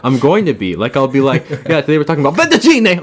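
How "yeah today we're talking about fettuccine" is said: quick, lightly hammed-up Italian accent; a touch of a mock Italian accent, faster; bad Italian accent. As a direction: fake Italian accent, played for laughs. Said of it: "do a bad Italian accent".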